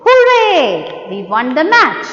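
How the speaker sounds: happy victory cheer; excited exclamation. Shown as a demonstration. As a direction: burst out with joy on the first word. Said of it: "we will say".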